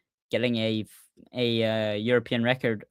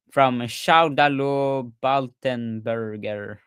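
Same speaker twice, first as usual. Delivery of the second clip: slow, half-hearted French accent on the name; much slower than usual. Shown as a demonstration. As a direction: start the name like a Frenchman, then let the accent slip. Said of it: "I started in a French accent and I didn't".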